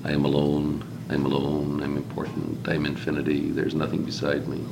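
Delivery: small, soft monotone of a self-absorbed point; little squeaky voice. Acted. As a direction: lightly voice a tiny being droning to itself, hushed and even. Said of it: "in this little squeaky voice".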